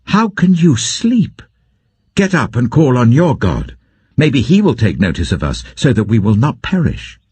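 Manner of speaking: a rattled sea captain, pitched high and pleading; alarmed ship captain. Acted. Captain rousing Jonah in the storm, urgent and high.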